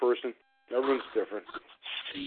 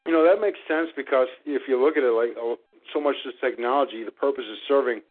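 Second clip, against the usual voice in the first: talking while chewing gum. Real, not acted. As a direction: say it with gum in your mouth. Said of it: "I had gum in my mouth".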